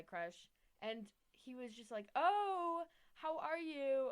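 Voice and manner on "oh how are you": bright greeting. Retold or imitated. Crush greeting, retold high voice.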